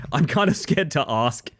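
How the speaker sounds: said through a laugh. Real, not acted. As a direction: laugh while repeating it. Repeated laughing.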